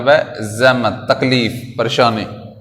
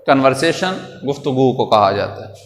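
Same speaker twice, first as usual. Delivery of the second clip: normal talking voice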